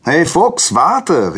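high, loud hail; calling out. Acted. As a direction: call after someone running off. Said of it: "rief Prometheus".

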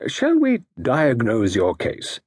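slow, suave detective voice; a calm, knowing consultant; lightly voiced genteel gentleman; Parker Pyne.

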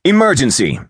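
high, urgent snap; snapped. A narrator's reading. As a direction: snap out the alarm. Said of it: "he snapped".

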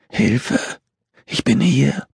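high-pitched strained cry, little volume; desperate call for help. A narrator's reading. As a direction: cry out weakly, voice way up. Exhausted girl calls for help.

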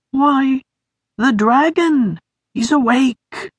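high, thin, flat-toned voice. A narrator's reading. Sniff telling Beamer the dragon is back, flat and high. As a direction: state it without feeling. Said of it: "Sniff said flatly".

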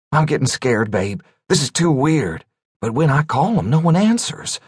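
lightly voiced frightened man; fearful. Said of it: "full of fear and worry".

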